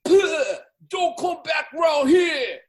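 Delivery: slow, high, loud threat; warning shout. Acted. Gang member chasing off an outsider, shouting a warning. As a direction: shout them off your turf.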